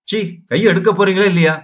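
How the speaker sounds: high-pitched, mildly exasperated demand; indignant protest. Acted. Woman demanding that her lover let go, indignant protest.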